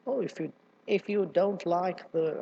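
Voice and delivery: put-on a slow, tentative stab at a southern accent; attempted southern accent. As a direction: try the southern accent, then falter. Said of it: "in that southern accent".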